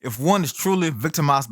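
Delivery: "truly" given deliberate emphasis; stress on TRULY. Real, not acted. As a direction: repeat the condition, weighting the word "truly". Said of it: "I really want to emphasize the word truly here".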